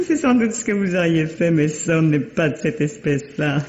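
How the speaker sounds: laughing lightly while mocking; amused. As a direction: tease him with a laugh in the voice. Wife mocks the husband's suggestion. (moqueuse, en riant)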